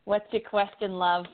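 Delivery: eerie fortune teller asking the question; a mysterious psychic drawing you in; creepy fortune teller voice. Acted. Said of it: "That's my creepy fortune teller voice".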